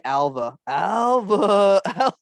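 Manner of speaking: playful movie quote call; mock Nick Cage calling. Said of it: "just saying".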